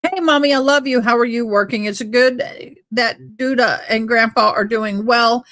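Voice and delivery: sweetly chirping to mommy in a put-on voice; mock sweet daughter. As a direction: read her letter like a doting girl. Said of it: "she's talking to mother-in-law again".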